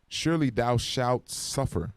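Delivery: slow, stressing "Surely thou shalt suffer"; emphasized. Shown as a demonstration. Teacher quoting Christ to the class, slow and stressed. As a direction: drag out "Surely" and weigh each word. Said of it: "I'm emphasizing those words".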